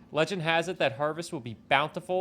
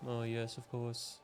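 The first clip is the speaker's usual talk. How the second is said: pompous voice; 10 dB quieter, slower than usual. Acted. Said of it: "like a pompous asshole".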